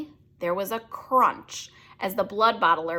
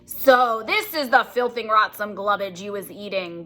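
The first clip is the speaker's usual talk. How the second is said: a mildly louder brutish giant voice; booming giant; 3 dB louder than usual. Acted. Bloodbottler sneers at the BFG's food, mild boom. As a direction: lightly boom it out as the bully giant. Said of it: "boomed the blood bottler".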